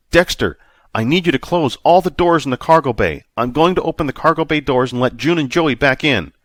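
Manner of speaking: loud, high commanding voice; urgent orders. A narrator's reading. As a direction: give the orders in a hurry.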